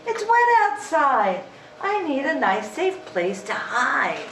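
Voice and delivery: high clucking storybook hen. Acted. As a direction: squawk it like a worried hen. Hen's voice in story.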